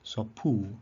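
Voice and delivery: "so pu" with stress on a drawn-out PU; long accented final syllable. Shown as a demonstration. Teacher repeating long-vowel example, long stress on "pu". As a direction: lengthen and accent "pu" in "so pu". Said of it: "it can be a perispomenon if it's long".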